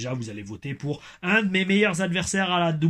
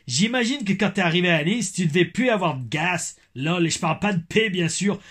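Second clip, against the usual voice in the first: lightly hammed-up Québécois accent; 4 semitones higher, 3 dB louder than usual. Reading a fan's comment about Nice, mock Québécois accent. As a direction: read out in a higher put-on Québécois accent. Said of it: "mon accent québécois".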